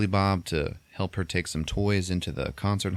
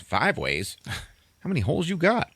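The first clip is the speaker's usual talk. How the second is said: mock astonishment, rising higher; incredulous question; 9 semitones higher than usual. He hears of her five ways, incredulous. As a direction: echo it back in disbelief. Acted shocked repeat of admission.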